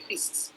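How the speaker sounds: "fish" pronounced "fis"; Bihari-style "fish", with s for the final sh; dental s. Shown as a demonstration. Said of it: "Bihari speaker will say".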